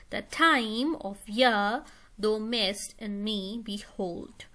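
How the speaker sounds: slow, each second syllable stressed; iambic stress. Shown as a demonstration. Teacher reading a Shakespeare line to show iambic stress, slow and measured. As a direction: read it out in iambic beats. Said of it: "So there's a stress on the second one".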